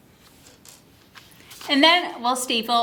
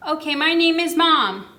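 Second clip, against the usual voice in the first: put-on demo to child; 5 semitones higher, 4 dB louder than usual. Shown as a demonstration. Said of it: "So you might say".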